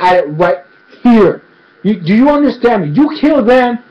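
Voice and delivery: mock tough warning, stumbling with indignation; acted threat. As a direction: lay down a defiant ultimatum, hammering key words. Korra threatens the judge, acted.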